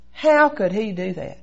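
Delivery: slow, mildly indignant question; retold anger. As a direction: replay the grievance, stretching the words. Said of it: "I was mad and angry at God".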